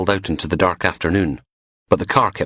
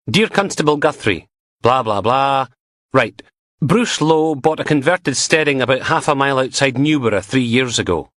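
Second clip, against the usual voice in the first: put-on higher, eager young constable voice; chatty young constable; 6 semitones higher than usual. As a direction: gossip the news eagerly. Constable reads out the email.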